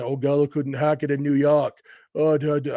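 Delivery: barely-there New York accent, mocking a Yankee fan; a New York accent attempt that hardly lands; failed New York accent. Yankee fans jeering at Gallo, in a weak mock New York accent. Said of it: "I can't even do a New York accent".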